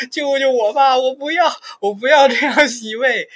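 put-on high, loud, wailing child pleading; a child crying and shouting for mercy. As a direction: wail like a small boy begging to stop. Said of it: "我就在那儿边哭边喊".

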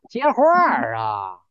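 slow, drawn-out mock command; mock scolding. Real, not acted. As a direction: prod him to answer, half joking.

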